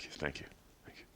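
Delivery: meek starstruck thank you; grateful fan. Pretend. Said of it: "I'd be like".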